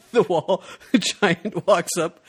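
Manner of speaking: laughing through the words; chuckling while telling it. Real, not acted. Laughing while retelling the scene.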